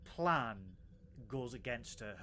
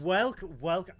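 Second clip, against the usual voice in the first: loud, bright-eyed welcome to a new arrival; excited welcome; 5 semitones higher, 11 dB louder than usual. Real, not acted. Host greeting Jen as she joins the live chat, loud and excited. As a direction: throw the door open with your voice.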